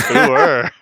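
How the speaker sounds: cheeky British ooh-er. Retold or imitated. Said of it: "Ooh-er is an actual thing".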